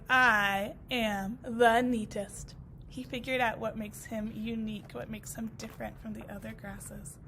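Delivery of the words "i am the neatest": slow, proud low boast. Acted. Walt telling the grasses, slow proud boast. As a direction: own the title slowly. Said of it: "He goes".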